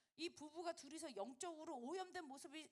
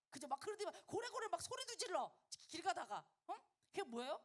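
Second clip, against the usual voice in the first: loud, high, animated sermon delivery; forceful preaching; 5 semitones higher, 5 dB louder than usual. Acted. Preacher warning youth about drunken boldness, forceful loud preaching. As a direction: build the cautionary example with rousing energy.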